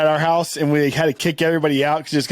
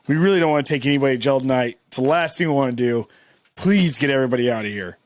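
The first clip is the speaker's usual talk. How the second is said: pleading cop; 5 semitones lower than usual. Retold or imitated. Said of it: "he's like".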